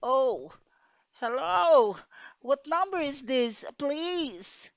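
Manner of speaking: jolted by overhearing a murder plot; shock. A narrator's reading.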